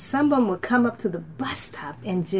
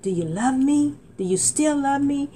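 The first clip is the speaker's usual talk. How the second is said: retold plea; 4 semitones higher than usual. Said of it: "I cried out with my heart".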